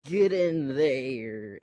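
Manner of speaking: slow, stretched-out command; mock captor's order. Captors pushing Chewie onto a ship, mock drawn-out order. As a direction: draw out a pretend order.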